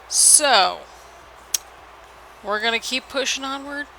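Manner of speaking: wrestling commentator summing up the result; match wrap-up call. Pretend. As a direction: sign off the title defense like an announcer.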